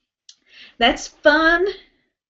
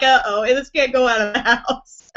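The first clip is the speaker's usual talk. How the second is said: lightly imitated North Dakota accent; a touch of mock North Dakota. Retelling Tyler's slip at work, mild North Dakota accent. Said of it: "North Dakota voice".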